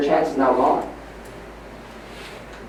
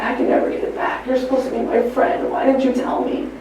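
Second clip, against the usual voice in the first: imitating a crying friend; 4 dB quieter than usual. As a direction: plead as the dead friend, soft at first and rising in anguish. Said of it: "He came to me crying".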